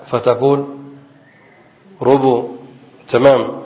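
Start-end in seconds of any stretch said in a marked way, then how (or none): 2.0-2.5 "ربو" said as ru-bu with a single b; both syllables of "ربو" said with u; rubu pronunciation. Shown as a demonstration. Teacher shows students the variant "ربو", with the r and b both given u. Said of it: "ضم الراء والباء".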